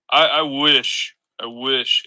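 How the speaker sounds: hiccuping between words; with hiccups. Real, not acted. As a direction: talk through the hiccups. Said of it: "It's been, like, so off and on".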